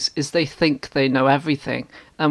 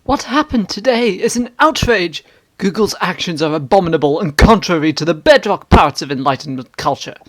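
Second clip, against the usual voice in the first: indignant commenter, pitched up; hammy stage actor; 4 semitones higher than usual. Acted. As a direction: overblown outrage, declaiming. Outraged commenter read aloud.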